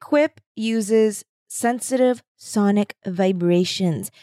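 slow, deliberate ad read. Acted. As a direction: announce each word slowly. Deadpan ad read.

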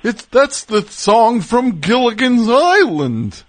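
slow, very high, hammed-up amazement; mock astonishment. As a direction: act out a crowd whose minds are blown. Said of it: "amazing that there was a point where people were like".

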